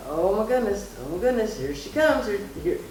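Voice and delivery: high, excited retelling of the nurse; mild mock delivery-room excitement. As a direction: imitate the nurse's rising excitement. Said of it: "was saying".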